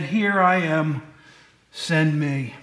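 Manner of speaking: slow, humble offer; lightly voiced earnest Isaiah; Isaiah answering. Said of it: "And Isaiah said".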